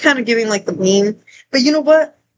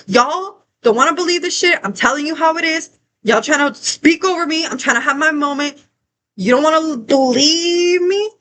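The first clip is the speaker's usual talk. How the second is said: retold yelling; 4 semitones higher than usual. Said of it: "because I was yelling".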